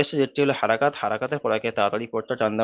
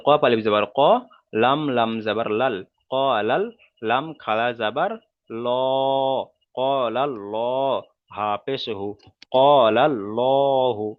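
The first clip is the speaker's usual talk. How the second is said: spelling drill. Shown as a demonstration. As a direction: spell it out deliberately for learners to follow. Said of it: "প্রথম বানান করলাম". (ধীরে ধীরে আরবি বানান করে পড়া)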